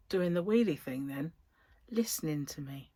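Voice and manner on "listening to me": unvoiced, hushed aside; whisper. Real, not acted. Whispering to viewers that the device is listening. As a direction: breathe it so the device can't hear.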